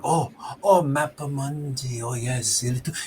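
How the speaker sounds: lightly voiced smug explorer with a scoff; sanctimonious greeting, daring them on; mustached explorer Pierre. Game master voices the wounded explorer, sanctimonious and scoffing. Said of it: "and he's like".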